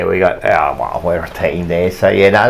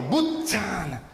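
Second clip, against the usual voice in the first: imitating dad; slower than usual. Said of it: "And he'd say like that too".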